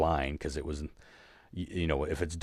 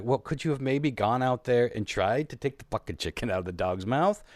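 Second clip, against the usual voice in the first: raised, incredulous mock scolding; indignant retort; 6 semitones higher than usual. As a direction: throw the question back at her, higher and sharper. Angry retold confrontation with neighbor.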